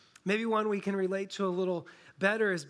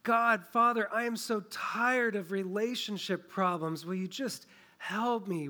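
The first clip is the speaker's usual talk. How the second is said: weary pleading cry; 2 semitones higher than usual. Retold or imitated. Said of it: "It's a cry that says".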